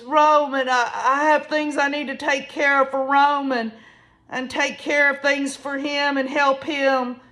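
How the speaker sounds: imitated emotional plea; imitated weeping. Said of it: "emotionally weeping".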